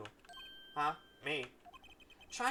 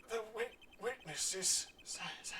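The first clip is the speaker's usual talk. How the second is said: hushed whispered echo of last words; 4 semitones higher, 6 dB quieter than usual. Retold or imitated. Player recalls the victim's last words, whispering. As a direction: breathe the words out like a haunting memory.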